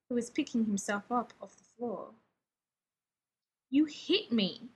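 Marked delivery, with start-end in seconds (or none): 3.7-4.7 slow, pressing each word; slow, insistent repeat. Acted. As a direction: keep hammering the point home.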